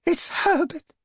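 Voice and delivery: very high screamed realisation. A narrator's reading. Old woman realising her son is knocking, scream. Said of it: "she screamed".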